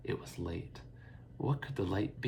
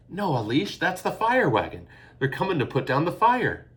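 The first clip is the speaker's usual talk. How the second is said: calling out; 8 semitones higher, 6 dB louder than usual. A narrator's reading. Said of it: "Fiona called".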